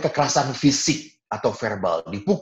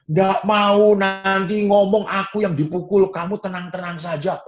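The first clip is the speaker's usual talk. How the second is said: higher, loud refusal; annoyed older brother; 9 semitones higher, 4 dB louder than usual. Retold or imitated. Preacher voices himself refusing his younger brother.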